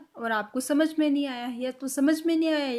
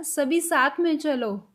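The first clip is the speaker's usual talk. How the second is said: put-on slow call to the kids; 2 semitones higher, slower than usual. Shown as a demonstration. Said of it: "अब हमने बच्चों को बोला".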